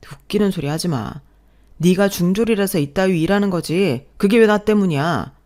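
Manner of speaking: loud, rising shout; husband blaming wife's schooling, furious; angry husband. Acted. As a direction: shout her down.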